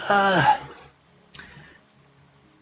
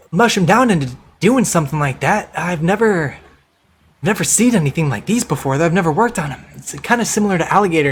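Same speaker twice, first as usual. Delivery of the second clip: lower, a musing tradesman; lightly voiced craftsman; 3 semitones lower than usual. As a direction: think aloud like a curious leather worker. Leather worker examines pelts.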